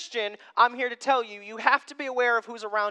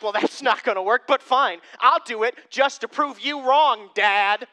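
put-on defiant kid; 5 dB louder than usual. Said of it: "You tell them to go do something".

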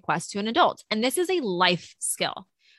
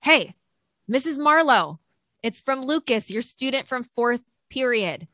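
student subject line; 4 semitones higher than usual. Acted. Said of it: "the subject line says".

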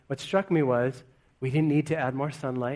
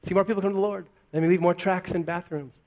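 anxious self; 3 semitones higher, faster than usual. Retold or imitated. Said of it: "going back to my own anxious state".

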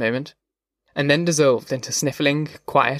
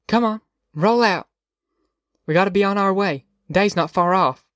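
higher-pitched wake-up call; mother rousing sleepers; 6 semitones higher than usual. A narrator's reading. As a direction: call the family out of bed. Mother rousing her camp before dawn.

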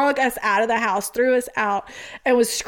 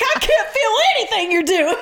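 put-on giddy drunk teen; 9 semitones higher than usual. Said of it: "I was like".

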